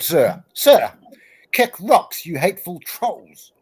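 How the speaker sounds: hamming up a scolding from the chat, lightly; quoting Agape. Retold or imitated. Quoting a chatter scolding the stream, mock-indignant. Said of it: "and I quote".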